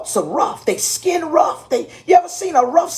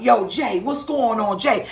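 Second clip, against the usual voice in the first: lightly lower, laid-back bishop voice; Bishop Page impression; 5 semitones lower than usual. Pastor imitating her bishop's casual greeting, lightly lower. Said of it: "this is the way he talk".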